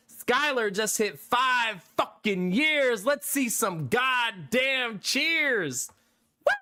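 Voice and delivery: slow, high hype-man call; hype announcement. Real, not acted. Streamer rallies chat for a subscriber's anniversary, drawn-out hype call. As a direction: stretch it out to rally the chat.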